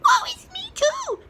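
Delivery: very high, loud hammed-up squeal; mock woe. A narrator's reading. Smallest chicken mourns eggs too, mock squeal. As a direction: wail it like a tiny dramatic chick. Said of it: "peeped the".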